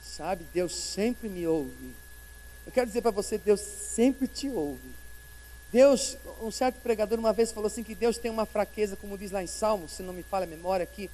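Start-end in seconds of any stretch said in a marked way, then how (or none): 0.0-5.0 slow, softer, every word laid down; tender slow promise; gentle reassurance. Acted. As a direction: comfort the grieving listener.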